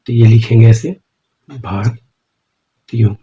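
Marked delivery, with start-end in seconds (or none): 1.5-3.1 very slow, stretched word, softer; drawn out while writing. Shown as a demonstration. Teacher drawing the shorthand for students, slow and drawn out. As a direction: stretch the word out as you write it. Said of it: "ये हो गया भारतीयों".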